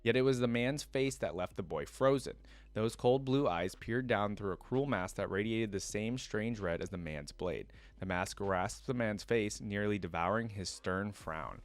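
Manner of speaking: steady lore-reading voice, measured and even; story narration. Acted. Streamer reads League lore to viewers, storyteller voice. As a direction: read it like the lore entry.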